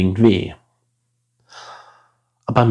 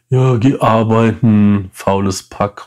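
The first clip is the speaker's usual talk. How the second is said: sneering insult; 5 dB louder, slower than usual. Retold or imitated. Quoting passers-by insulting beggars.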